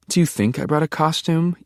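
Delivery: high, incredulous rhetorical question; indignant comeback. A narrator's reading. Daughter answering her father back, high-pitched indignation.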